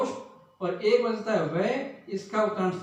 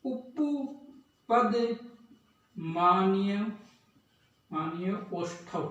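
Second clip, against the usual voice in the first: slow teacher dictation; drawn-out dictation; 3 dB quieter, much slower than usual. Shown as a demonstration. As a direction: stretch उपपद very slowly, then मान्य ओष्ठव. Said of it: "तो इसका सूत्र है".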